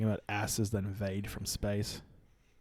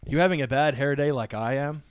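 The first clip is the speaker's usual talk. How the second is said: a bit louder, punchy trailer read; hyped trailer line; 3 semitones higher, 7 dB louder than usual. Pretend. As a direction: sell it like a promo. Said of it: "Go, go".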